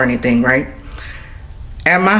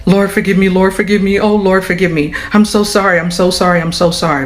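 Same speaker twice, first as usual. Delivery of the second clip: repeated pleas, easing off toward the end; imitated desperate praying; 2 semitones higher than usual. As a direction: act out her begging God for forgiveness. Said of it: "And she is praying".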